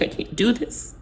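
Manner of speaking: breathless whisper of giving up; barely a breath, worn out; whispered retelling. Retold or imitated. Telling her husband she's done, whispered. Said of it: "was like".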